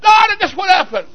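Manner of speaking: high, eager burst of news; excited father. Acted. Preacher as father calling his daughter, excited. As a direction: call out as if bursting to share it. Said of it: "But he goes excited".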